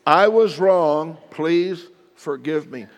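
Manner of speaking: slow, earnest apology; mean every word, slowly; sincere apology. Shown as a demonstration.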